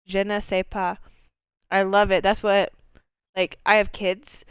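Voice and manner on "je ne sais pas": poor French accent. Shown as a demonstration. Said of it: "in a very poor French accent".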